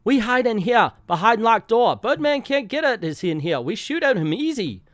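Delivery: hammed-up broken-English Asian accent; mock Asian accent. A comic-book reader voicing the bandits in a mock Asian accent. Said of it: "my Irish accent is just about as offensive as the Asian one".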